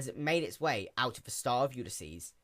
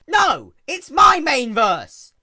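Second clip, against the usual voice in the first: high, loud, drawn-out cry; anguished yell; 14 semitones higher, 18 dB louder, much slower than usual. A narrator's reading. Princess yells to protect her mane verse. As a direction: wail it in protest. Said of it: "Luna yelled".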